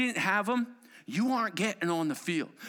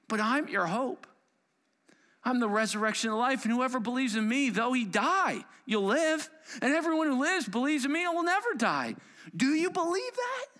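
building preaching; 6 semitones higher than usual. Real, not acted. Preacher driving the promise home to the congregation, building. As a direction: build it up to the question.

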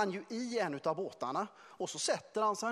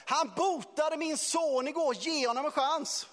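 shouting from the shore; 8 semitones higher, 5 dB louder than usual. Retold or imitated. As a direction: yell it across the water to Simon. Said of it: "folk på stranden som bara skriker till Simon".

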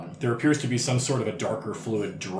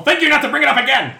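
indignant squeaky outburst; 13 semitones higher, 9 dB louder, faster than usual. Acted. Offended high voice.

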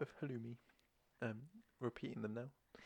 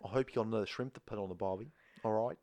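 jokey, badly faked Aussie; hammed-up Aussie cliché; bad Australian accent; 4 dB louder than usual. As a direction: put on a mock Australian twang. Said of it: "I'm bad at all accents".

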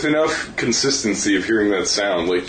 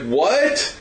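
retold shock; 9 semitones higher than usual. Retold shock at bad news.

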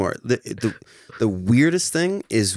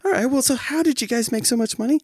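mock pointed question; faster than usual. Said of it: "is like".

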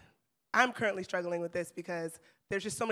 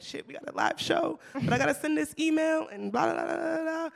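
high-pitched imitation of juggling too much; harried selves; 10 semitones higher than usual. Host recalls juggling live show and email, mock-harried. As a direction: rattle off the worries in a raised mock-stressed voice. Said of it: "we were being like".

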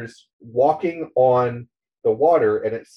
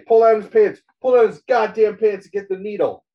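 higher, louder barked orders; cop yelling orders; 7 semitones higher, 3 dB louder than usual. Retold or imitated. TV cop yelling at officers over the tackled man, bossy. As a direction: shout it like a cop.

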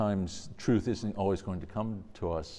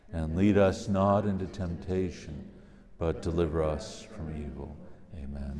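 prayer; 3 dB louder than usual. Real, not acted. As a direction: lead the prayer aloud. Leads the Our Father.

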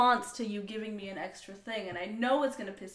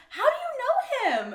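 high, slow suspicious question; suspicious hairdresser; 7 dB louder than usual. Retold or imitated. Rival stylist questioning girlfriend, high and slow. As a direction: ask it pointedly, up high. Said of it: "she was like".

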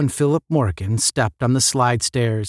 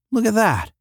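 sudden high exclamation; eager interjection, pitched up; interjected; 10 semitones higher than usual. A narrator's reading. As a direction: cut in to point something out. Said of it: "interjected Tom".

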